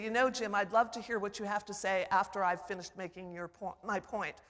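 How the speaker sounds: calm, firm reclaiming of the floor; polite but firm. Shown as a demonstration. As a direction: hold your ground politely. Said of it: "in a polite way to say".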